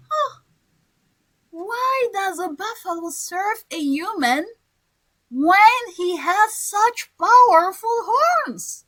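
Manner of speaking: slow, amazed question; a light, surprised wolf. Shown as a demonstration. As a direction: stretch the words out in disbelief. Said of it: "the wolf is surprised".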